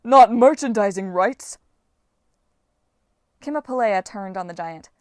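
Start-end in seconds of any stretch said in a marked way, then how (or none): 0.0-1.6 slow, loud, horrified wail. A narrator's reading. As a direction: draw it out in huge dismay. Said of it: "Polybides wailed".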